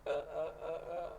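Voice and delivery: imitating winded, stuttering gasps for air; mock the sound of having the wind knocked out; retelling a fall, imitating breathless dolphin-like uh-uh-uh; Flipper gasps. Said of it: "I'm sounding like Flipper".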